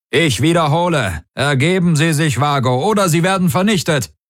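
high, insistent demand to surrender; commanding threat. A narrator's reading. Pursuing cruiser to the Vago, commanding threat. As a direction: order them sharply, pitched high, speeding up at the end.

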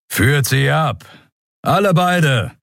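high firm command; lieutenant ordering arrest. Acted. Lieutenant ordering his men to take both away. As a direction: send them off.

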